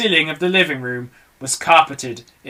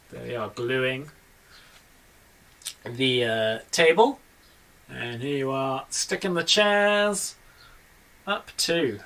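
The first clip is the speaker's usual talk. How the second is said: much softer aside; 2 semitones lower, 6 dB quieter, slower than usual. Real, not acted. Reader shows the child the picture, soft. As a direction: point out the picture gently.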